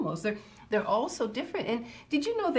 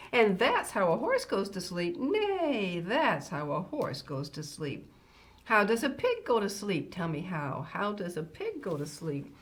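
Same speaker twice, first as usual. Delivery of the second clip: measured, lilting picture-book reading; reading to children. Acted. A grandmother reading a farm bedtime book to children, storytime voice. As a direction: read a rhyming bedtime book to little listeners.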